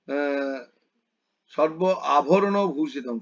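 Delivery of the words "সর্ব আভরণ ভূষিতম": "সর্ব আভরণ" split into two separate words, slowly; broken-up wording. Shown as a demonstration. Guru showing the student's wrong split pronunciation, slow. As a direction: say "সর্ব আভরণ" with a clear gap between the words. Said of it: "সর্বাভরণ একসঙ্গে বলবে।".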